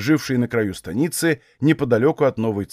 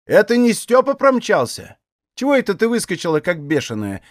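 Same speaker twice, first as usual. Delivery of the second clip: put-on vexed old woman, higher, scolding lightly; annoyed old aunt; 6 semitones higher than usual. A narrator's reading. Old aunt chides Aksinya, slightly annoyed. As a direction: brush off the girl's fear with mild scorn.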